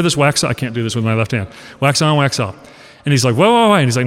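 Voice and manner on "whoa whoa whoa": whoa called out higher and louder; sharp halt. Retold or imitated. Mentor cuts off his student, higher and louder. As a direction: stop him short, mock alarm. Miyagi stops the questions.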